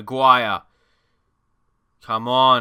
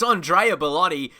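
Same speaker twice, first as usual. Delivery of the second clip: Andrea Belotti with Italian vowels, rolled and open; Italian accent; 3 semitones higher than usual. Shown as a demonstration. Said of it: "try and say his name a little bit with the Italian accent".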